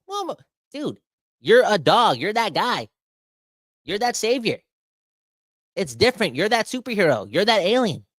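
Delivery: high, loud hype; ranting at Pettersson, loud high hype; hyped-up rant. Real, not acted. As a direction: pump him up like a superstar. Hyping star as leader.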